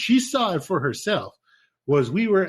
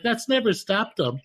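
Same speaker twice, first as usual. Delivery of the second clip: alarmed protest; 4 semitones higher, 3 dB louder than usual. Retold or imitated. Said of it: "I'm like".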